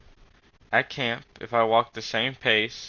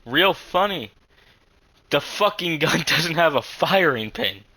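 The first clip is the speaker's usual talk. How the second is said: laughing; 6 semitones higher, 4 dB louder than usual. Real, not acted. Laughing at his broken gun.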